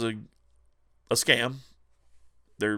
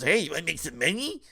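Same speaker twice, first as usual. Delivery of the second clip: much higher and louder hammed-up hustler voice; mock scalper pitch; 9 semitones higher, 8 dB louder than usual. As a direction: play the sleazy scalper selling the scheme, over the top. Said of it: "walked up to him and says".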